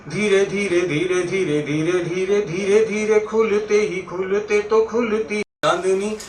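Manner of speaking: very slow, lilting chanted verse; half-sung stage poem, swelling midway; poetry recitation. Acted. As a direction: linger on every metrical phrase. Recites verse about moonlight.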